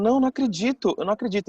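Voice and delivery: high, loud indignant protest; indignação alta e incrédula; indignant disbelief. Retold or imitated. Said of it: "Ficou indignada e falou".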